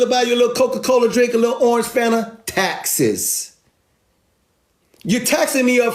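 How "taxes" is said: deadpan drop. Real, not acted. Punchline after every purchase, deadpan and much softer. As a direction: let the word fall flat and soft.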